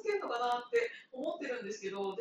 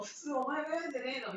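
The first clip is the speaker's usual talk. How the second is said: quick, higher imitated reproach; mock strong phrasing; 4 semitones higher, faster than usual. Coworker grumbling about the junior who walked past, mock strong phrasing. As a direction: imitate a pushy complaint, quickly. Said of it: "そんな強い言い方ではなかったけど".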